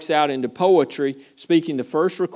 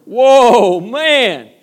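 much higher, much louder whoa; a higher, far louder cry of amazement; bigger delight; 8 semitones higher, 13 dB louder than usual. Retold or imitated. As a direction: belt it out in awe. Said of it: "he went".

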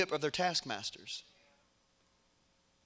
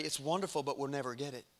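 low, softer, defeated aside; resigned doubt; 6 semitones lower, 9 dB quieter than usual. Retold or imitated. Ten spies answering the hopeful people, quietly resigned. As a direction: let it sink quietly into doubt.

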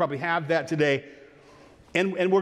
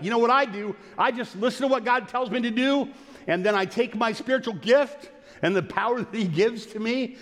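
lightly acted enthusiasm, pitched higher; imagined happy believer; 5 semitones higher than usual. Believer telling others how he lives, mildly enthusiastic. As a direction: recite it eagerly as a delighted believer. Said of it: "where you're like".

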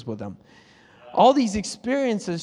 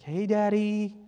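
flowy intimate prayer; 3 semitones higher, 3 dB quieter, slower than usual. Retold or imitated. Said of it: "little flowy".

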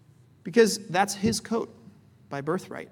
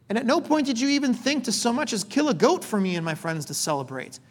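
raised, hurt complaint, pitched high; aggrieved older son; 3 semitones higher than usual. Retold or imitated. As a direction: vent years of resentment at Dad. Older son confronts father in retelling.

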